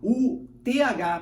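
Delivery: T H spelled letter by letter, slow; spelled out slowly. Shown as a demonstration. Teacher spelling out for Brazilian students, slowly. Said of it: "pra falantes da língua portuguesa".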